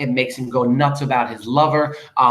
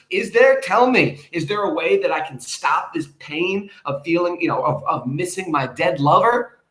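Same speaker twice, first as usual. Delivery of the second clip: mock pleading question; 6 semitones higher than usual. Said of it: "he's asking the bird".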